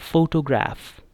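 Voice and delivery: फोटोग्राफ said clearly as a model word; model pronunciation. Shown as a demonstration. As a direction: say फोटोग्राफ with first-syllable stress, falling. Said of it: "इस तरह pronounce करना है". (फोटोग्राफ का साफ़ आदर्श उच्चारण)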